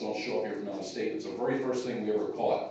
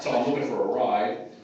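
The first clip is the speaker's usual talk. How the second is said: jokingly louder, lightly attempted Australian accent; mock Australian accent; 6 dB louder than usual. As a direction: have a playful go at sounding Australian. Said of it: "put on my best Australian accent".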